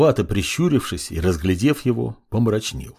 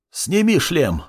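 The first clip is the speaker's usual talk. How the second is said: sharp raised order; commanding; 7 semitones higher, slower than usual. A narrator's reading. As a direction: give a firm command. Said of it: "в приказном тоне". (приказным тоном)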